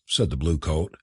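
plain reading voice

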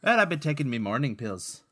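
amateur Irish brogue; put-on Irish lilt; Patrick's Irish accent. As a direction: say it as a roughly done Irishman. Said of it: "Speaking of bad accents".

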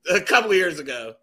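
laughing while talking. Real, not acted.

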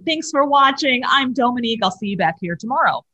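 lightly acted presenter sign-off, lifted at the start; a hint of on-air presenter; TV host sign-off. Re-enacting her TV show sign-off.

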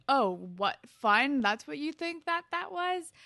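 loud mock disbelief, climbing in pitch; imitated indignation. Paige answers Dean's claim of fun, imitated indignation. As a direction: throw it back loudly, rising high. Paige disputes Dean, acted quote.

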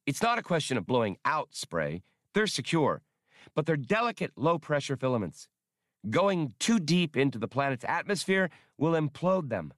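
high, quick little droid voice; bright rapid droid explaining; Max's voice. Acted. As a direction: pitch it up like a small eager robot. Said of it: "Max answered".

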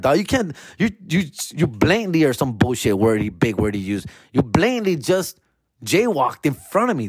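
high, indignant scolding; hammed-up offended cop; mock cop lecture. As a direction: lay down the law like a petty cop. Cop lecturing, writing ticket.

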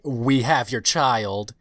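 slow, ominous ransom voice; mock villain threat; menacing kidnapper. Player voicing a kidnapper's threat, slow and ominous. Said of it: "I don't really wanna say".

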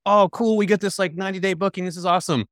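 high-pitched, gleeful mock enthusiasm; mock excitement. Host reacting to a ninety-day booking, mock excited. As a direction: play the delighted, unsuspecting host. Voices naive hosts getting a booking.

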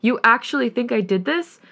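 put-on accused boyfriend rising in anger. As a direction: raise your voice in disbelief. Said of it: "His voice is raised".

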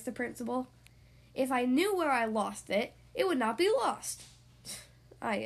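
lively picture-book storytelling voice; reading to children. Acted. Podcast host reading a story to young kids, lively storyteller. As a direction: tell it brightly for six-year-olds.

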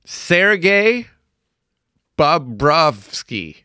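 slow, piece by piece with a questioning lift; careful name reading. Real, not acted. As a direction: sound out an unfamiliar name. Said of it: "I gotta pronounce it".

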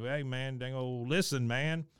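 lightly imitated rambler asking to be heard; Boomhauer. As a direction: run the words together, pushing on "listen". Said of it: "he said".

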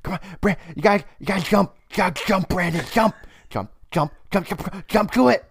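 put-on high fast nagging kid voice; whiny little brother. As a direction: pester like an impatient little kid. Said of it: "like your little brother who's like".

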